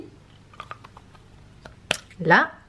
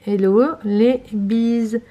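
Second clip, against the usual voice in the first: slow reading aloud; much slower than usual. Shown as a demonstration. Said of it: "J'ai vraiment dû éclairer".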